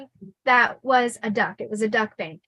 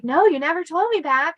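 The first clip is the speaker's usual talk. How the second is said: higher-pitched, lightly voiced child; mock-innocent child coaxing grandpa; child playing along; 5 semitones higher, 3 dB louder than usual. Acts her child self to grandpa.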